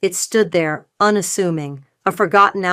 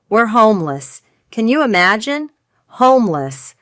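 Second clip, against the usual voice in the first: theatrical self-pity. Acted. Mother pleading theatrically.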